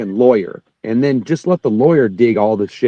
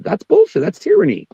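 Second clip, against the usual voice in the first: angry; 9 semitones higher than usual. Retold or imitated. Retold argument with official.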